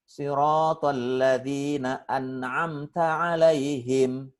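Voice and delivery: slow chant with a clear, unheld "n" in "an'amta"; izhar recitation. Shown as a demonstration. Ustadz demonstrating izhar to learners, slow chant with clear "an'amta". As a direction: chant slowly, releasing the "n" of "an'amta" cleanly. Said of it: "tapi dibaca izhar".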